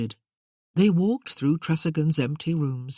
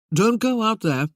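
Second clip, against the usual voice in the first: raised, higher warning call; urgent raised warning; sharp warning; 6 semitones higher, 6 dB louder than usual. Acted. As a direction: stop her before she steps out. Duke warns Sarah off courtyard.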